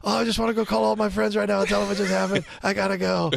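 hammed-up starstruck fan, slowed on the key line; starstruck giddiness. Young actor reacting to Tom Hanks, giddy starstruck voice. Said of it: "I was like".

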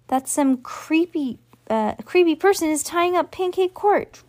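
put-on high, squeaky child's cry; squeaked. A narrator's reading. Trevor tells the others about the creepy person, squeaked. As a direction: squeak it out in alarm. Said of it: "cried, squeaked Trevor".

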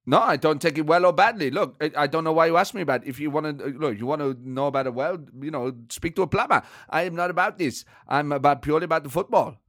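irritated German manager impression; comic, indignant football boss; Thomas Frank. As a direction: bristle at the interviewer in German-accented English. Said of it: "It's a good impression".

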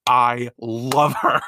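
slow, laughing I love her; laughing gush. Retold or imitated. Fan gushing about a character, slow and laughing. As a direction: melt into a laugh over the character. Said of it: "I'm like".

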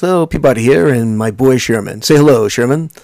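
lightly voiced dry professorial dog; a hint of a prim cartoon dog; Mr. Peabody voice. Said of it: "he'd always introduce".

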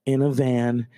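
high, loud, slow sung-out shout; hammed-up Farley bellow; Farley callback. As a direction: stretch it out like the Farley rant.

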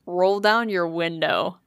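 slow, deliberate order; dad's command. Retold or imitated. Dad tells child to roll down window, slow command. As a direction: mimic dad giving a measured instruction.

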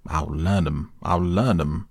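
blustering toad. A narrator's reading. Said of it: "he cried".

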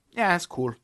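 put-on breezy Icelandic-accented shrug. A lightly voiced Icelandic singer shrugging it off, mild Icelandic accent. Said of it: "That was my Icelandic accent".

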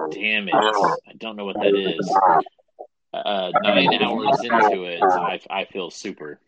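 slow, loud, eerie distorted voice; possessed-sounding rasp; demonic voice. Real, not acted. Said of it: "minus the demonic voice that will be on the recording".

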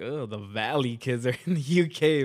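a light mock Valley girl accent, drawn out slowly; mocking Valley kids abroad in a slow Valley accent. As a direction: lazily mimic a Valley accent. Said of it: "Valley accents are disgusting".

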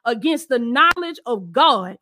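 rising preacher's cadence; fervent sermon delivery; preaching. Acted. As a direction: preach it out to the congregation. Preaching prayer over spirits.

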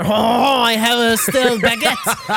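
talking through a mouthful; laughing with a mouth full of bread. Acted. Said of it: "talking with your mouth full bit".

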